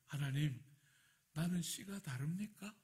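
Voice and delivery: mildly defiant question to God; slightly crooked prayer. Retold or imitated. Pastor retelling his second prayer to God, slightly sulky. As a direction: lightly challenge God, with a questioning rise. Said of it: "예, 약간 삐딱하게".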